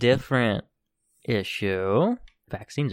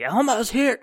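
put-on Elmo-style excited toddler voice; 11 semitones higher than usual. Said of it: "She's like".

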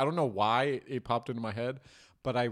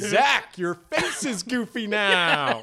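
slow, loud, laughing through words; can barely get it out for laughing; 8 semitones higher, 8 dB louder, much slower than usual. Real, not acted. Cracking up at friend.

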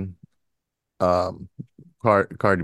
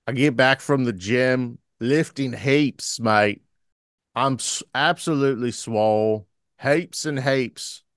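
put-on Australian accent; 3 semitones higher than usual. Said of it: "I've done Australian on the show".

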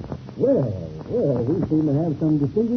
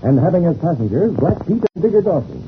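steady announcer's storytelling read; serial recap narration. A narrator's reading. Radio announcer recapping last episode for listeners, narrating evenly.

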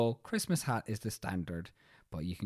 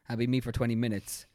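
usual speaking voice

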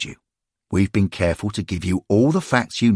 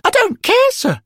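put-on much higher, louder boy's voice, sulky about facts; a grumbling lad who hates lessons, sir; schoolboy Derek; 6 dB louder than usual. A narrator's reading. Derek complaining to the angels about facts, high and sulky.

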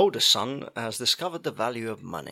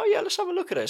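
mock eager dad; faster than usual. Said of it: "I was like".

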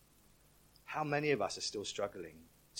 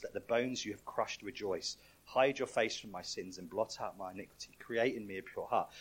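scripture reading; 3 dB quieter than usual. Acted. Pastor reading a psalm to the church, softly. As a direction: read the psalm gently, like a prayer.

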